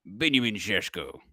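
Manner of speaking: name in a Slovenian-style accent, "Benjamin Šeško" with rolled Š sounds. Shown as a demonstration. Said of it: "I can't say it without the accent now".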